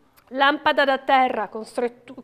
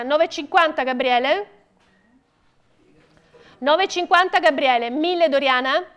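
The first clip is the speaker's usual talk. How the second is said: auctioneer. Acted. Auctioneer calling out bids.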